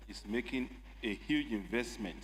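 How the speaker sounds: campaign voice. Real, not acted. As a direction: deliver it as if on the campaign trail. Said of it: "It's your campaign voice".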